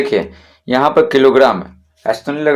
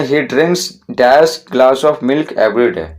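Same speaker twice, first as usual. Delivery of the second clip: very slow, word by word, saying "dash" for the gap; slow dictation read; much slower than usual. Shown as a demonstration. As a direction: read the sentence slowly for the students to follow. Teacher reads exercise sentence.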